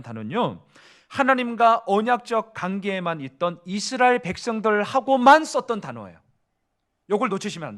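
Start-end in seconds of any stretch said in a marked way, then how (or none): none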